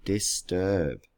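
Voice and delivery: "Disturb" softly as dis... turb; split into syllables. Shown as a demonstration. Teacher tests the break, "Disturb" softly split in two. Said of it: "It's two syllables".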